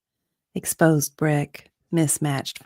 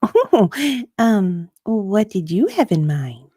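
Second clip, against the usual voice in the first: nervous; 5 semitones higher, 4 dB louder than usual. Acted. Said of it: "Kate laughed, nervously at first".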